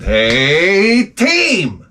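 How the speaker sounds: sing-song "Hey, team!" rising high at the end; chirpy boss hailing the crew; mock cheerful rallying call.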